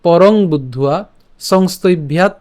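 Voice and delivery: measured Sanskrit line with pauses between phrases; teacher's careful shloka reading; verse recitation. Shown as a demonstration. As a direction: recite deliberately, lifting the phrase endings. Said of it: "আমি আবার প্রথম লাইনটা বলি".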